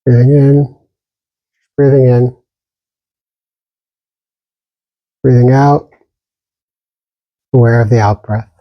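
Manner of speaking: calm, even meditation guidance with long silences between phrases; unhurried meditation teacher, pausing long after each instruction; guided meditation. Real, not acted. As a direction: gently guide listeners inward, leaving lots of space.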